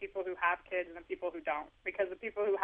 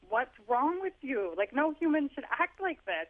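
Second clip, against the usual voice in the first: exasperated disbelief; 6 semitones higher than usual. Retold or imitated. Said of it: "because you're like".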